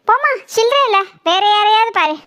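put-on passer-by brushing off the old woman, curt; dismissive brush-off. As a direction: wave the beggar away. Brushing off a beggar.

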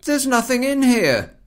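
echoey room sound; hallway echo. Real, not acted. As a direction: speak in an echoing empty room. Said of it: "from the echoey sound of my voice".

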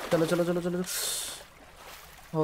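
slow, hushed whisper. Real, not acted. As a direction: sneak past in a whisper. Sneaking past the monster. (धीरे से फुसफुसाना)

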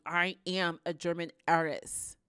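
flatly sure of herself; certain claim. Retold or imitated. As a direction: state it like undeniable fact. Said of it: "you just act like".

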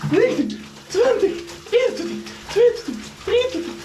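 frantic count, voice climbing from the cold; in ice cold water. Real, not acted.

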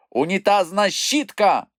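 high, taunting exclamation; persistent insult. A narrator's reading. Moomintroll keeps provoking the bush, taunting. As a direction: hurl the insult with force. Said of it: "не відступав Мумітроль".

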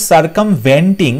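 "সার্কামভেন্টিং" slow, with a clear VEN; "সার্কামভেন্টিং" with e in the third syllable; "ven" vowel. Shown as a demonstration. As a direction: stretch "সার্কামভেন্টিং" as sar-kam-ven-ting. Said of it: "ভি ই এন হয়".

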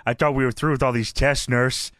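low, groggy Stone Cold from a hospital bed; patient mumbling to his nurse; Austin voice. Retold or imitated. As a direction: drop it low and woozy. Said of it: "Austin says".

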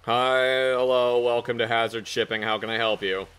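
lightly voiced, low receptionist. Receptionist greets a shipping customer, lightly put-on low voice. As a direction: drone a greeting as the front desk. Plays receptionist in improvised skit.

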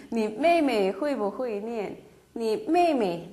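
each syllable spelled out slowly; slow model reading. Shown as a demonstration. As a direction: read it slowly for learners. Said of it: "삼성, 사성이니까 반만". (천천히 또박또박 읽는 예문)

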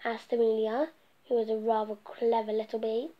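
lively storybook narration read aloud; reading to children. A narrator's reading. Storyteller reading a picture book to children, lively. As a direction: tell the bee story to little listeners.

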